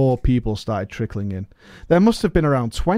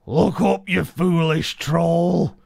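scornful orc; 5 semitones higher, slower than usual. Acted. Orc Vishal scorns the troll.

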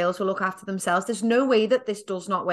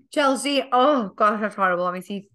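talking around ice in the mouth; mouth full; 4 dB louder than usual. Real, not acted. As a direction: speak with ice in your mouth. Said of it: "I've got ice in my mouth by accident".

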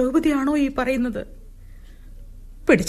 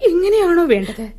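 rebuking question; 6 semitones higher than usual. Acted. Mother-in-law rebuking Draupadi.

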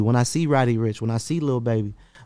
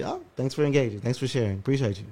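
sarcastic thanks; 5 dB quieter than usual. Retold or imitated. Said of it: "but I always say".

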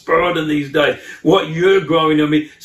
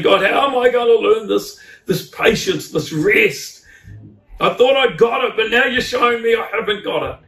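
plaintive complaint; 6 semitones higher than usual. Retold or imitated. Acts out complaining to God.

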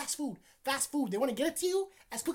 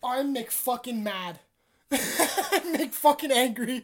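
mock anger; 5 dB louder, much slower than usual. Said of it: "I'm so mad right now".

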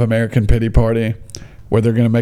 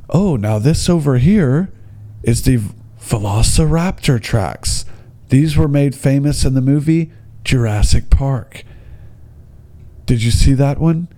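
lightly imitated tour-guide recital; practised guide patter. Guide shows visitors raptor tracks, mildly mock rehearsed patter. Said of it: "talking to you like you weren't a person".

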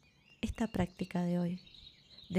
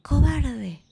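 grito fuerte y agudo de enojo; grito enojado; 7 semitones higher, 10 dB louder than usual. A narrator's reading. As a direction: lanzarle el insulto a la montaña. (niño enojado que grita cobarde)

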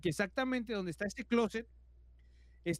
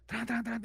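higher, rapid banging noise; imitated door rattling; 4 semitones higher than usual. Padlock banging as the door is pulled, imitated urgently. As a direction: rattle it out insistently. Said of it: "Y se escuchaba".

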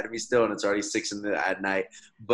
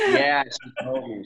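laughing it out, louder and slow; 5 semitones higher, 6 dB louder, slower than usual. Real, not acted. Guest laughing at host's Minnesota aside, laughing. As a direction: chuckle through the words.

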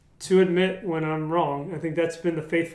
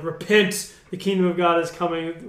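mock preacher cry; 4 dB louder than usual. Quoting a Bible preacher's cry.

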